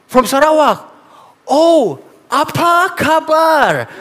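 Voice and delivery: mock pastor speaking slowly to an outsider; slow condescending greeting. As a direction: greet him like an exotic specimen. Pastor greets him like a specimen.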